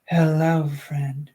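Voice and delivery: put-on a faint childlike voice, barely shifted; lightly voiced little girl greeting; baby voice. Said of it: "let me do my baby voice".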